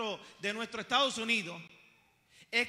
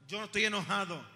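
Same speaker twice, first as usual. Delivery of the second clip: insisting, badly hidden annoyance; mock angry denial; 3 semitones lower than usual. Angry person answering if they are angry, mock huffy denial. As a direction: deny it with mock irritation. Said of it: "Responden así".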